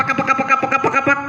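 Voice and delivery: pak pak said as flapping; pigeon wing flaps. Shown as a demonstration. Ustadz shows the children a pigeon's sound, flapping paks. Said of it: "itu burung dara".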